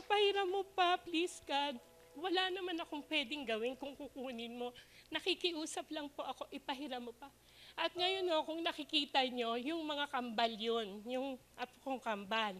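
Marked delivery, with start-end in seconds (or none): 0.1-7.3 pleading prayer. Retold or imitated. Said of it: "tinetest ni Lord".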